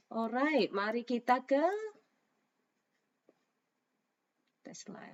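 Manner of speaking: slightly hoarse, sore throat. Real, not acted. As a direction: speak through a scratchy sore throat. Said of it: "suara saya serak".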